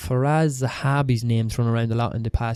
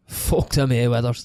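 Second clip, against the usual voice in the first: slow Cavan accent, Irish midlands; drawn-out rural Cavan accent; slower than usual. Shown as a demonstration. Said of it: "In a Cavan accent, it's more like".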